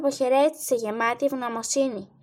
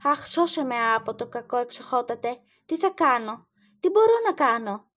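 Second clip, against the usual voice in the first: trembling cry. Acted. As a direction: beg in terror for the boy's life. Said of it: "φώναζε τρέμοντας".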